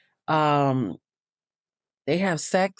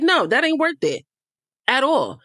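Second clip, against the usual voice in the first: retold dismissal; 8 semitones higher than usual. Retold dismissive quote, high pitch.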